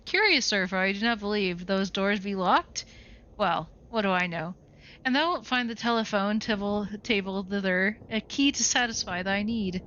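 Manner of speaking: a hint of a stiff, archaic butler; lightly voiced old retainer, prim and correct; lightly voiced formal servant; formal old-fashioned servant. Same archaic character answers.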